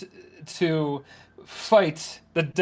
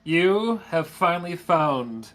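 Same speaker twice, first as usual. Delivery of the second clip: slow, grand reveal to the party; dramatic announcement; slower than usual. Acted. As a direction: announce it like a herald.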